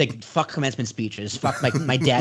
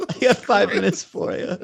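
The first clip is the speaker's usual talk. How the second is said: mock call-out; 8 semitones higher than usual. Echoing the mock wrestler call-out.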